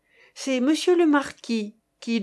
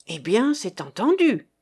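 feverish; 4 dB louder than usual. Acted. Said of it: "interrogea fébrilement".

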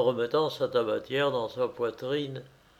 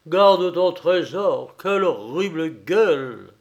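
acted agitated disgust; repelled outburst; 3 semitones higher, 6 dB louder than usual. A narrator's reading. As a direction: throw it back in horror. Grandfather recoils from horrible face.

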